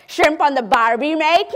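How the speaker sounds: lightly hammed-up Australian guesser; mock Australian accent. Stranger guessing Australia, mock Australian accent. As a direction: imitate a stranger doing a bad Australian accent. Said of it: "I lived in Australia for six years".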